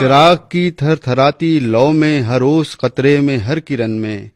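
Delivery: measured, declaiming verse recital; poem recitation. Acted. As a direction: recite like a poet at a gathering. Repeating verse for audience.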